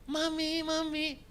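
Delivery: high sweet calling voice; calling mommy. Retold or imitated. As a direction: call your mom sweetly. Daughter calling her mother.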